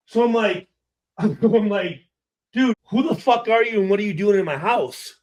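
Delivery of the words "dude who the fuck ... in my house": fast, laughing retelling; laughing through quote. Real, not acted. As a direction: crack up while quoting yourself. Quotes himself while laughing.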